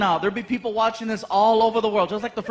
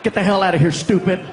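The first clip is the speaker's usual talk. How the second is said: louder gruff dismissal; mock cop yell; 2 semitones lower, 5 dB louder than usual. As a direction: bark him away like an angry cop. Cop yelling at him.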